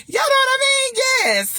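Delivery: high, loud words through laughter; laughing. Real, not acted. Laughing while asking the ladies if they agree. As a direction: still laughing as you ask them.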